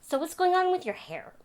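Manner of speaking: put-on high, nosy voice of an old clerk; old clerk's question. Store clerk quizzing her about her hair, high voice. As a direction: ask it like a prying old man. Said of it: "he goes".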